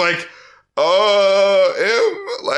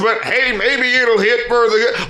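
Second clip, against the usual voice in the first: higher, hammed-up rapper voice; over-exaggerated voice; 3 semitones higher than usual. Rappers half-joking to land a crunk hit, over-exaggerated voice. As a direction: put on a joking, overblown voice. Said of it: "I'm doing an over-exaggerated voice".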